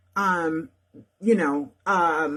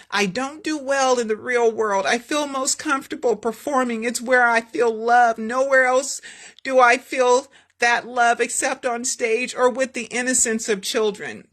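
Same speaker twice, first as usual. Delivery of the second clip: higher, louder confiding voice; wistful Michael; 5 semitones higher, 3 dB louder than usual. Acted. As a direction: confess where he feels loved. Michael confiding about stage and love.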